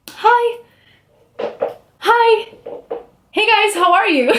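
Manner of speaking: dorky excited hello, giggling; overeager hi. Retold or imitated. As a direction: greet the judges too eagerly, three times. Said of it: "So I say hi three times".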